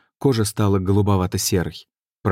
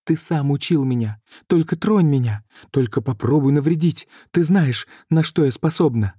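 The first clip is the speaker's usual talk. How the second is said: tearful threat; 7 semitones higher than usual. A narrator's reading. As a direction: threaten him, voice pitched high. Sorceress threatening through tears.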